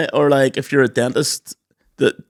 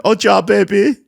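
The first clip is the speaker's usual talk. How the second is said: high-pitched mock French accent; hammed-up French accent with a rising end; 7 semitones higher, 4 dB louder than usual. Shown as a demonstration. Podcaster runs through accents for friends, mock French accent. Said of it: "And here's a French accent".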